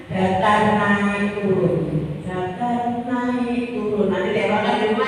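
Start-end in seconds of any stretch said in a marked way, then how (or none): 0.1-1.8 said slowly, pitch tracing each word; slow level, rise, fall. Shown as a demonstration. Teacher demonstrating the tones slowly. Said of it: "iramanya bagaimana?". 2.3-4.1 the same slow tones, quieter; softer slow repeat. Shown as a demonstration. Teacher repeating the tones more softly. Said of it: "iramanya bagaimana?".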